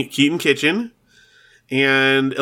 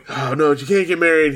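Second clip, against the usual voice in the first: higher, mildly mock-upset protest; retold upset; 4 semitones higher than usual. Brother objects to sister marrying, mock upset. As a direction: imitate a brother objecting in dismay. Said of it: "He's very upset".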